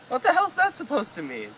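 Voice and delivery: high, indignant outburst; outraged. Acted. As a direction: demand an answer, offended. Arthur outraged at the entry.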